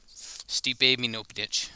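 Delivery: slow, halting try at "Stipe Miocic"; halting attempt. Shown as a demonstration. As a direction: stumble slowly through "Stipe Miocic", garbling the surname. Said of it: "you didn't know how to say".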